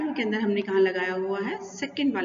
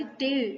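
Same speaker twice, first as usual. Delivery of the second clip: "टे" raised in pitch and held as the stressed syllable; 4 semitones higher than usual. Shown as a demonstration. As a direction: demonstrate "टे" alone, as the stressed part. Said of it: "टी पर हमारा stress आएगा". ("टे" पर ज़ोर देकर)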